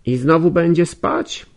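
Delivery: high, loud exasperated call. Acted. Nastazja calling out as he drops back onto the couch, loud. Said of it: "zawołała Anastazja".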